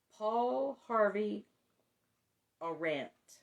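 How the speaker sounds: slow, drawn-out radio name; Paul Harvey. Retold or imitated. Host giving the radio man's name, slow mimicked announcement. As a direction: lightly mimic a newsman stretching out his name.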